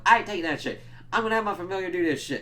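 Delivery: high, mock-outraged boast; imitated indignant retort. Insulted vampire volunteering his familiar, mock indignant.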